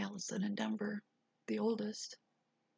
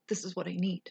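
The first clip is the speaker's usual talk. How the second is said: louder and firm, a mild mock yell; firm demand; 4 dB louder than usual. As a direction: insist on it forcefully. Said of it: "I yelled at her".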